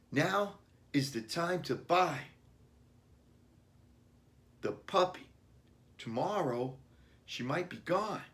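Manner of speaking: put-on high, pressing boy's voice; boy pleading with Dad to buy the puppy now; urgent child plea. A narrator's reading. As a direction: urge Dad like an anxious kid. Billy urging father.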